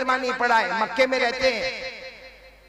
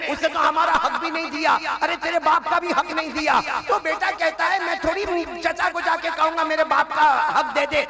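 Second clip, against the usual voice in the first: higher pleading voice; lightly voiced pleading; 8 semitones higher than usual. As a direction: plead with rising urgency. Mother and son voiced pleading. (ऊँची आवाज़ में हल्की विनती)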